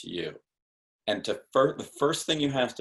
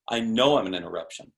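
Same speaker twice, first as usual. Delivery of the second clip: knowing tone. Shown as a demonstration. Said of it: "said just in that tone".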